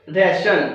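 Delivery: राशन said with a clear sh sound for ti; model pronunciation. Shown as a demonstration. Teacher modelling the word for students, clear sh sound. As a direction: model राशन, the tion as shun. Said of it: "इसको राशन भी पढ़ सकते हैं".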